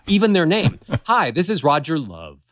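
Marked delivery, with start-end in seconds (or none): 1.0-2.4 "Hi, this is Roger Love" with the tune falling from "Hi" down through "Love"; flat, falling voicemail greeting; descending melody. Shown as a demonstration. Caller recording voicemail with a sinking tune. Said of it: "And they're descending melodies".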